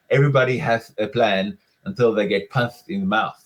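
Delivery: light lisping Mike Tyson impression. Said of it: "If you say it like Mike Tyson, you have to lisp".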